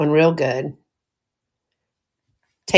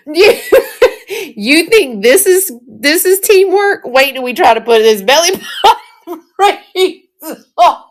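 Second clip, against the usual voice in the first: giggling through the words; laughing; 8 semitones higher than usual. Real, not acted. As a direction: laugh while you talk. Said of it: "I done got tickled".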